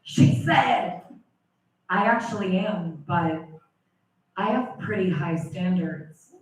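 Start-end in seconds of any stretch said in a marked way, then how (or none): 1.9-6.3 low, softer put-on voice; woman in story. Woman answers suitor about wanting a man, low put-on voice. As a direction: answer in a much lower, reserved character voice.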